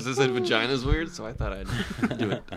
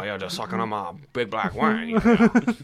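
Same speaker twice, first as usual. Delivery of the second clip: put-on Southern accent; 7 semitones higher than usual. Continuing the Southern voice.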